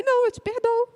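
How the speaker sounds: voz aguda e fina de esposa teimosa; orgulhosa teimosa. Retold or imitated. (esposa orgulhosa, voz aguda e teimosa)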